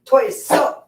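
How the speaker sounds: squealing pet voice. Real, not acted. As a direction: squeak it out to the puppy. Squeal at the dog.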